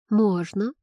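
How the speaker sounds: ordinary delivery, nothing marked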